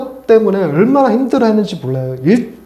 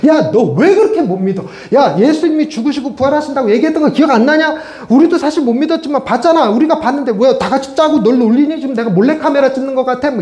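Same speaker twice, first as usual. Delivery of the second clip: a pitched-up scolding of a doubting friend; mock scolding; 4 semitones higher than usual. The disciples scolding doubting Thomas, mock scolding, pitched up. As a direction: scold him as if he is being silly. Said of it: "이러면서 야단치지 않아요".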